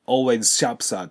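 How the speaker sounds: "always shops at" run into one chunk; linked consonants. Shown as a demonstration. Teacher shows busy liaison, "always shops at" joined up. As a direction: merge the S sounds in "always shops at". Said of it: "同じ子音動詞ですから".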